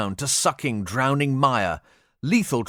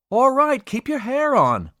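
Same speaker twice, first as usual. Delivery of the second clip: high, loud, exasperated; irritated retort; 13 semitones higher, 4 dB louder than usual. Acted. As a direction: snap back, fed up. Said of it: "Baines rejoindered".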